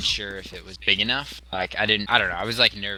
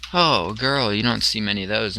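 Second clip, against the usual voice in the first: mock amazed reaction. Player making a big deal of a girl, mock amazed. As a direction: make a mild fuss, pitch dropping off.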